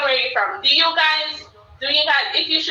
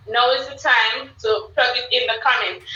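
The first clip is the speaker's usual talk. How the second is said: ordinary delivery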